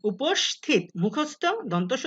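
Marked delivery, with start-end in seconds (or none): 0.0-0.8 উপস্থিত with a dental s, uposthito; উপস্থিত said with s before th; teacher models উপস্থিত with an s; pronunciation demo. Shown as a demonstration. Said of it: "দন্ত স মতো উচ্চারিত হচ্ছে".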